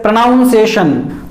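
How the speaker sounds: pronunciation said with NOUN in the second syllable; common mispronunciation. Shown as a demonstration. English teacher quoting how most speakers say it, common mispronunciation. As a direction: say pronunciation as "pro-NOUN-ciation". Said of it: "most of the speakers pronounce that word as".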